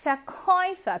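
페코이파 with 코이 stressed; 페코이파, accent on the second syllable 코이. Shown as a demonstration. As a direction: lean on 코이 in the middle of 페코이파. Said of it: "이 음절의 강세가 있습니다".

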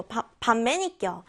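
반매니껴 said slowly with Gyeongsang dialect rise and fall; Gyeongsang accent. Shown as a demonstration. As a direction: draw out 반매니껴 in Andong dialect tune. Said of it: "반매니껴가 아니라 반매니껴". (경상도 억양으로 천천히)

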